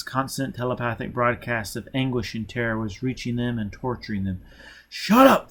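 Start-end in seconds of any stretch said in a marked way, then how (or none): 4.9-5.5 sharp shout, much higher and louder; furious yelled command; angry snap. A narrator's reading. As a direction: bark it at the child. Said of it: "Foyle snapped".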